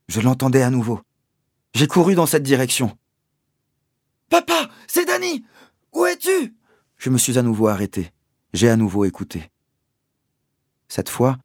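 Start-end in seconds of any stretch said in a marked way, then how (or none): 4.3-6.6 high, loud call; boy running toward his father's voice, calling out. Acted. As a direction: shout ahead as you run.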